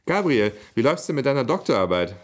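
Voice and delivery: sweet sing-song call to get his attention; sugary sweet. A narrator's reading. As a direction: ask it with put-on sweetness. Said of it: "fragte Emily in lieblichem Ton".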